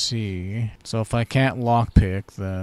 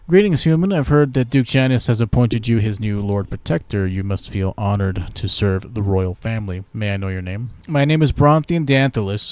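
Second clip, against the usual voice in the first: haughty elf, a touch louder; elf ambassador; 6 dB louder than usual. Pretend. Elven ambassador greets the new Lord Protector, haughty. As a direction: greet the human with lofty pride.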